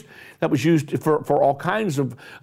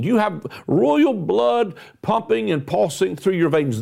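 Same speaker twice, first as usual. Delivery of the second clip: usual speaking voice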